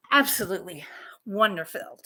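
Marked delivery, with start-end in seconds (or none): 0.1-0.8 whispered in awe; whispering. Real, not acted. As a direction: breathe it out, amazed. Hushed awe at the fit.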